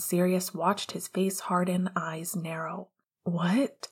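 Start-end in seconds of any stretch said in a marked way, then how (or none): 3.2-3.9 breathless. Acted. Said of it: "Sirius stated on an empty breath".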